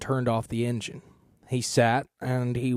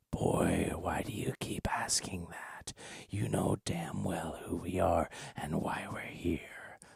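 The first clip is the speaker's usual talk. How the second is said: put-on hushed, very soft, raspy, sandpapery old man voice; 6 semitones lower, 9 dB quieter than usual. Narrator reads an old man answering a boy who questions him, rough, sandpapery voice. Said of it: "a tall frame with gray, patchy hair and skin like rumpled paper. He drew on a cigarette, holding the smoke in his lungs for a long while before exhaling. / the man said, / then back to the old man. /".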